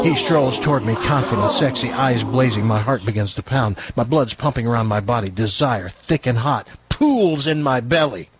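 low, measured story narration; novel read-aloud. A narrator's reading. Host reading a racy novel to co-hosts, measured narration. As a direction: read the steamy passage out evenly.

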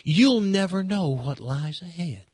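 mock a TV preacher gently, with a touch of southern lilt; a hint of a soothing televangelist; Joel Osteen impression. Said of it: "That's how, that's how Joel Osteen talks".

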